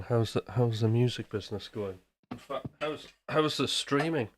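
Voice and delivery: talking while crunching snacks; crunching chips. Real, not acted. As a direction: speak through a mouthful of chips. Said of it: "Don't mind me crunching away".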